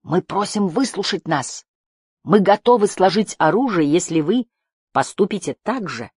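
formal called-out appeal; calling out. A narrator's reading. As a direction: proclaim it to a distant opponent. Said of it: "крикнул Барда".

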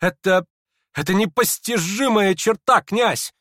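high, loud, stammering wonder; amazed. A narrator's reading. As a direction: marvel at it aloud, excitedly. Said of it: "в искреннем изумлении".

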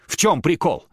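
high, loud and fast provocation; agitated challenge. Acted. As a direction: rattle off a threat. Platon challenging professor.

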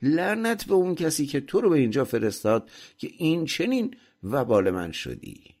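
high, pressing scolding; angry shout. A narrator's reading. Master rouses the sleeping servant at sunset, shouting and cursing. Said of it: "ارباب فریاد کشید".

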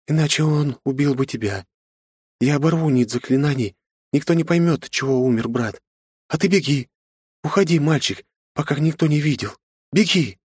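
high, pressing woman's voice; urgent woman. Acted. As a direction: push him out the door. Woman urging boy to flee.

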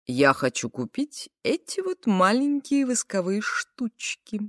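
lightly voiced mincing man; coy, affected, drawn-out voice; sassy drag queen. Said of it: "Разговаривает ужасно жеманным голосом".

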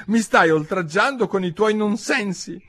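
high-pitched outrage; protest, deeply offended; huffy, high complaint; indignant. A narrator's reading. Offended mouse quarrels with Alice.

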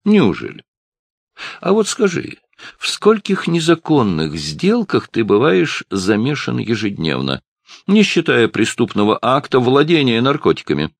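high and loud, showing him off to the barman; loud mocking bully. A narrator's reading. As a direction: sneer for the bartender's benefit. Bully interrogates Ralph. (парень громко высмеивает Ральфа перед барменом)

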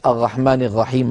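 "الرحمن الرحيم" with ghayn in place of each ر; unimproved ra. Shown as a demonstration. Teacher imitating a student still unimproved after training, "الرحمن الرحيم" with ghayn for ra. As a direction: say "الرحمن الرحيم" with both r sounds made in the throat. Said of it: "لم تتحسن الراء، بقيت".

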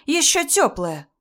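high, slow, drawn-out accusation; shouting. A narrator's reading. Mother-in-law exposing the bed to everyone, calling out. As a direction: stretch each damning word up high. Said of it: "закричала Раиса Ивановна на всю квартиру".

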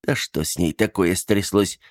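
usual speaking voice

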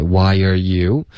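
"Why are you" slowly in three even beats; slow, joined why-yer-you for "Why are you"; "Why are you" with are weakened to er; three linked syllables. Shown as a demonstration. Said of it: "三个音节".

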